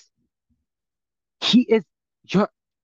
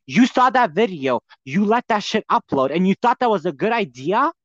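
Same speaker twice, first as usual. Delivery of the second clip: angry rant; 4 semitones higher than usual. Real, not acted. Ranting at Trisha over her accusation, furious. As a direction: tear into her, building fury.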